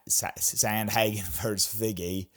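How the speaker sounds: put-on a light accidental Australian accent; a fleeting hint of Australian accent with a laugh; slipped into Aussie. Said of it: "I don't know why I went Aussie there".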